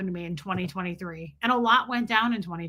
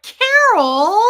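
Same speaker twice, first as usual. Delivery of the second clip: very loud, high CAROL; imitated husband's yell; 10 semitones higher, 12 dB louder than usual. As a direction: bellow accusingly at your wife. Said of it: "he yelled at her for it".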